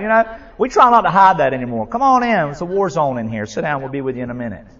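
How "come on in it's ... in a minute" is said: deadpan honest welcome. Retold or imitated. Honest greeting amid family war.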